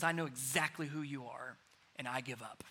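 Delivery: soft, hushed mock demon surrender; quiet surrender. Preacher voicing the demon's quiet surrender, hushed. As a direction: let it fade into giving up. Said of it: "that demon within this man says".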